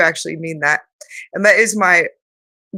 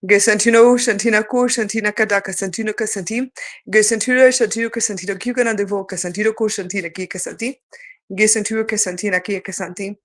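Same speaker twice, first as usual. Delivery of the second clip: rhythmic chanted light language. Acted. Speaker channeling light language to viewers, chanting. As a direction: channel it like a sacred tongue.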